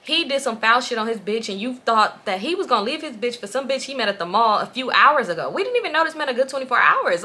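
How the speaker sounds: exasperated, emphatic scolding; retold irritated telling-off; annoyed. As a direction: spell it out to a friend, fed up. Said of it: "I'm annoyed".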